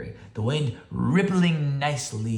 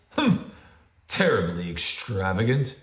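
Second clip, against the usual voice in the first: a little loud; 3 semitones lower, 3 dB louder than usual. Acted. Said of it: "Bear's voice was a little loud".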